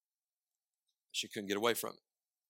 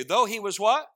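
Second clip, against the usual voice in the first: higher prompt; call and response; 8 semitones higher, 5 dB louder than usual. Shown as a demonstration. Preacher repeating the verse again for a congregational reply. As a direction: coax the answer out of them.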